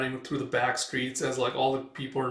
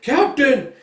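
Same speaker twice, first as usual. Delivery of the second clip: high-pitched shout; yelled call; 13 semitones higher, 12 dB louder than usual. Retold or imitated. Soldier shouting for his captain, high loud yell. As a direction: yell the name across the battlefield. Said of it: "He's like".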